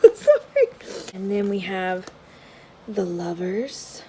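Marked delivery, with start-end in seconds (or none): 0.0-0.7 laughing. Real, not acted. Laughing apology.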